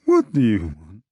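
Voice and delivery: strained, effortful croak; terrible effort. A narrator's reading. Hungover man questions the stranger, with terrible effort. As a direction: force the words out with great effort. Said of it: "with terrible effort".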